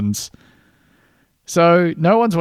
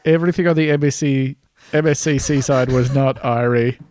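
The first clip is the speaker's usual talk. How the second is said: put-on Rasta accent. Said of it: "do it in a Rasta voice".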